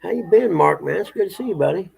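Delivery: high, bright-eyed hello to a pet; sing-song dog greeting. Real, not acted. Owner greeting the dog Marks in the yard, high sing-song pet talk.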